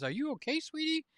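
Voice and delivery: soft, high-pitched sweet talk; hushed, lifted voice, acting concerned; tender concern. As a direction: check gently on a sweetheart. Groom checks on his bride.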